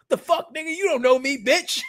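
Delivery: high, loud mock outrage; angry retort. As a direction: snap back at him, offended. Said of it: "They're like".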